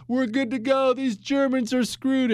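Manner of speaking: smug French generals. Retold or imitated. Host voicing French generals to listeners, mock smug. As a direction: play the overconfident general, tongue in cheek.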